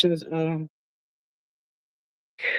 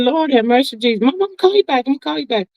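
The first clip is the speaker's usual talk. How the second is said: panicked prayer; 5 semitones higher, faster than usual. Retold or imitated. Retelling panicked phone reaction.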